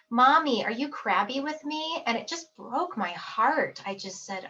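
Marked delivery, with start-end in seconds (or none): 0.1-2.0 mother imitating her worried little daughter; little daughter's voice. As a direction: voice the small girl asking mommy. Daughter voiced in retold scene.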